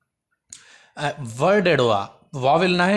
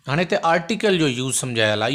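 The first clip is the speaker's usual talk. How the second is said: ordinary talk, nothing marked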